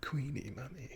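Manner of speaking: high-pitched mock royal; feminine posh voice. A royal calling the queen his mummy, feminine and high. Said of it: "sounds a little bit feminine".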